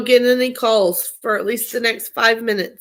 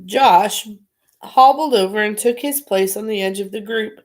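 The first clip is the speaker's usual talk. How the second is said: put-on reading a children's book aloud; story narration. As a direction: read it like a bedtime story.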